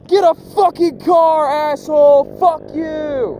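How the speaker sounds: loud, high yell from the car; high, loud road-rage yell. Retold or imitated. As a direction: shout it out at the cyclist. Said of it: "Sometimes I yell at 'em".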